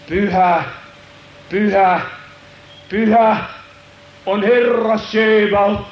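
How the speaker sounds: building, slow holy proclamation; seraphs crying out. Acted. Seraphs calling in the temple, building proclamation. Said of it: "kun nämä serafit huutaa".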